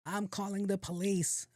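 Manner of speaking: put-on high, slow old lady voice; old lady threat. Old lady at the window threatening him, high and slow.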